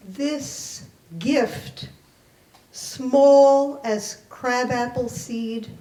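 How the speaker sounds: measured, deliberate poetry recitation; poem reading. Acted. Poet reading her childhood poem to the library audience, measured recitation.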